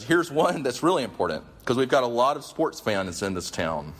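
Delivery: triumphant, sarcastic jab. Retold or imitated. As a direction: relish the punchline. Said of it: "Then triumphantly he says".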